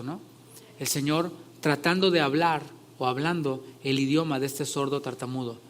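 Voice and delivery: ordinary talk, nothing marked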